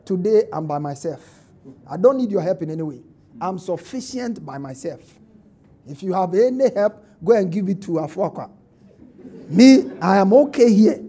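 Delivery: smug self-sufficient talk to God, lightly voiced; mock the self-reliant, lightly; proud prayerless boast. Preacher mocks a prayerless person, lightly smug. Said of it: "you are saying".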